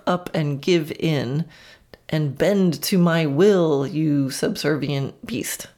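hammed-up tyrant, slowing toward the end; mock domineering. Worst version of a rider demanding submission, mock domineering. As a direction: pretend villain's decree, heavy on each word. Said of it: "think of the worst version of that".

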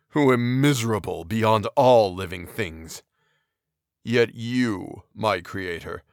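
a wretched giant speaking heavily; brooding creature. Acted. Voices the creature.

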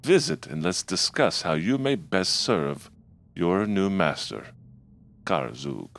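slow, eerie, menacing villain voice; possessed voice speaking slowly; otherworldly voice. Acted. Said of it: "speaks to you in an otherworldly voice".

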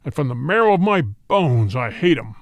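lightly voiced tiger, menacing; roaring tiger. A narrator's reading. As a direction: growl it out as a proud tiger. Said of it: "Then Shere Khan roared".

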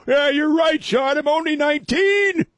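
put-on high, loud young guy voice; squeaky teenage caller. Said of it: "call me up and go".

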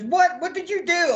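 high, shocked yelp; shocked disbelief. Retold or imitated. Partner learning he wrestles next, shocked. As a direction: blurt it out in alarm. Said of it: "He goes".

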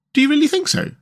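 very high, earnest Rat question; serious. A narrator's reading. Rat responding to Mole's delight, serious. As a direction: ask it in all seriousness. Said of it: "inquired the rat seriously".

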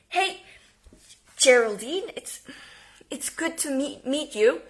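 lightly voiced nervous dentist, voice cracking; mildly cracking, uncertain greeting. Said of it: "cracking up her voice".

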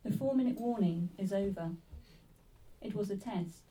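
sparse, measured verse with long pauses; poetry reading. Acted. Poet reading about a nuclear warning test, poetry reading. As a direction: give each short line space to settle. Reads own poem aloud.

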